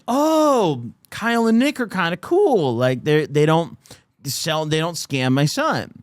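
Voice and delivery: a hint of the mom won over; imitating the mom. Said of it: "She was like".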